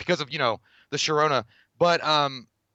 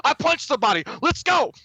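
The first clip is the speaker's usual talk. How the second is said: high hyped-up boast, rising higher; imitated triumphant whoop; 11 semitones higher, 3 dB louder than usual. Friend back from the cafeteria brawl, mock triumphant shout. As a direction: act out a pumped-up brawler celebrating.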